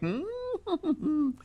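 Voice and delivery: high, soft laugh close to tears; teary laugh. Real, not acted. Host laughing himself to tears over the comments, teary laugh. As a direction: laugh until it almost turns to crying.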